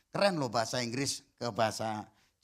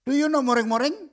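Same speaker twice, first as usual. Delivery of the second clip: loud and higher, teasing question; loud playful quiz; 12 semitones higher, 10 dB louder than usual. Shown as a demonstration. Preacher teases the congregation about the Javanese word, loud and playful. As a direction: call it out to the crowd with a grin. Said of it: "bahasa Jawa itu moring-moring".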